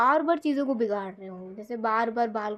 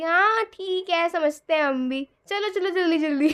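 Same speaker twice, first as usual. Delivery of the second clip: knowing teasing; 4 semitones higher than usual. Retold or imitated. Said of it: "सब लोग कह रहे हैं".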